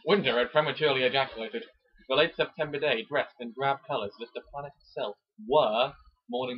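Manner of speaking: hammed-up dramatic reading of a romance novel; romance novel narration. Reading a Mills and Boon chapter to his co-host, mock dramatic. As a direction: read it like a breathless bodice-ripper.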